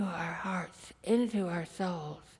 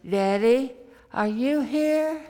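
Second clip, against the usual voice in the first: put-on louder, higher child's call, drawn out; a little louder; 4 semitones higher, 4 dB louder than usual. Little girl calls to her daddy from the bunk, louder. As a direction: call out a bit louder into the dark. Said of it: "a little louder".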